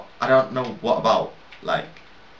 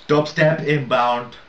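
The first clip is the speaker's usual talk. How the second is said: mock announcer; 4 semitones higher, 5 dB louder, slower than usual. Announcing the coming drop.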